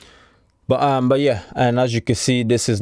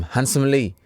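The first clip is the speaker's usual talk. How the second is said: said as a mock Chinese man's name; 2 semitones higher than usual. Joking to viewers that it sounds like a name, mock Chinese accent. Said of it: "Sounds like a Chinese man's name".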